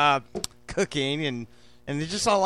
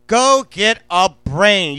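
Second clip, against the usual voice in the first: louder, slow mock telling-off; teasing scold; 6 dB louder, slower than usual. Real, not acted. Host teasingly scolds viewers who don't know a rub, slow and loud. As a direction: drag it out to shame them playfully.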